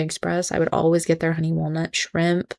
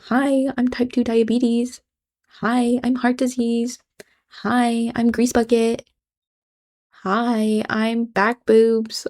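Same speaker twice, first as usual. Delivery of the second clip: mocking comeback; 4 semitones higher, slower than usual. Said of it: "your personality might be".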